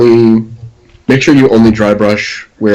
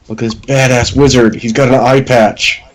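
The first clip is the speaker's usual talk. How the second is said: higher, mock-proud showing off; 4 semitones higher than usual. Recalling a botched first wizard, mock proud. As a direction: show off your first miniature, proudly. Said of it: "and I was so proud".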